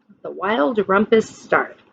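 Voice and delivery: usual speaking voice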